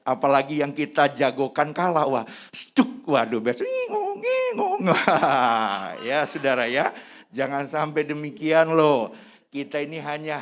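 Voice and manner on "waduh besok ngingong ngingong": mock whining. Mocking sulking fan after loss.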